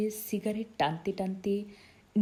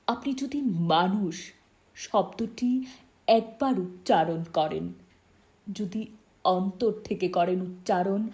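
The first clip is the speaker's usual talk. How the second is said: earnest plea; 4 dB louder than usual. Acted. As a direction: weigh each phrase as you plead. Acted friend's earnest plea about humanity.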